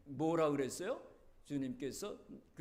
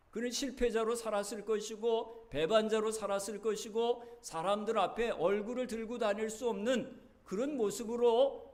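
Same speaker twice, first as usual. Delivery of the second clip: rising, louder sermon cry; preaching at full force; 6 semitones higher, 6 dB louder than usual. Acted. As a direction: drive it home to the congregation. Preacher building intensity. (힘차게 외치는 설교)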